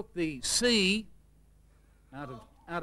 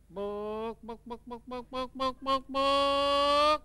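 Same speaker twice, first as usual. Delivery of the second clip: chook clucking; 6 semitones higher, much slower than usual. Acted. Chook asking the librarian for a book, clucking it out. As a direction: cluck each book like a hen. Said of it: "same thing".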